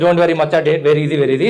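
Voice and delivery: low, easy, dismissive reassurance; laid-back South Indian friend. Retold or imitated. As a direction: drop low and shrug it off. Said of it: "whenever a South Indian says".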